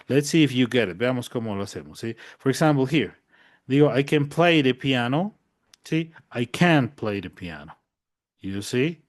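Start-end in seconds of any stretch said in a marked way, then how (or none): 3.9-5.3 "I can play the piano" with the weight on "play", tune rising; stress on play. Shown as a demonstration. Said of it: "Miren, entonces voy así". 6.3-7.8 "I can't play the piano" stressing "can't", falling after; stress on can't, then down. Shown as a demonstration. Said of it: "Y de ahí bajo".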